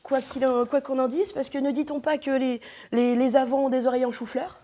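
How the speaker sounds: speaking around a mouthguard; wearing a mouthguard. Real, not acted. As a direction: mouthguard in, words muffled. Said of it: "je vais parler normalement quand même".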